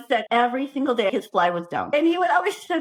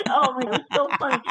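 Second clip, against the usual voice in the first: ordinary talk, nothing marked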